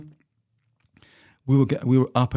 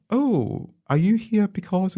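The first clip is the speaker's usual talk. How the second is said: high, sniffy posh Australian accent, imitated; a condescending posh Australian accent, pitched well up; mock posh Australian accent; 10 semitones higher, slower than usual. Private school student quizzing the finalists, high mock posh Australian accent. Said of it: "And they went".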